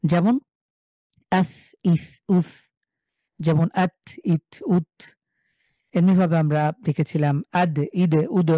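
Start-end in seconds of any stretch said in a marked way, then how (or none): 1.3-4.9 consonant with sukun closes the syllable, আস said as one unit; sukun joined once. Shown as a demonstration. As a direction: blend the stopped letter once into the vowel before it. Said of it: "পূর্বের হরকতের সাথে একবার মিলিয়ে পড়ব".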